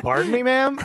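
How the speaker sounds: high, laughing pardon me; scandalized but giggling; mock-offended husband hearing an offer; shocked.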